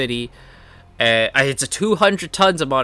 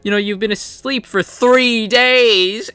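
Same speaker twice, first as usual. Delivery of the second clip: mock relieved squeal; 8 semitones higher, 5 dB louder than usual. Friend tells him he slept long.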